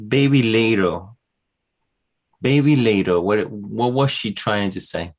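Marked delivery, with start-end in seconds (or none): 0.1-3.2 put-on "Baby Lado" raised and clearly sounded, with L and final o; toddler pronunciation. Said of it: "so she said".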